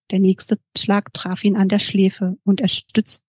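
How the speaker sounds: real slip on "stützt-", cut off mid-sentence; botched take. Real, not acted. Narrator misreads the fight scene, breaking off at "stützt-". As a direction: read evenly, then trip and stop at "stützt-". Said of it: "und noch mal von vorne".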